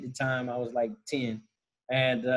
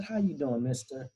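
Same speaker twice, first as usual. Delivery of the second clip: lightly voiced grandmother, near usual pitch; grandmother's greeting; 5 dB quieter than usual. Grandmother greeting the restaurant manager back, lightly imitated. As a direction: answer softly as the grandmother. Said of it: "She said".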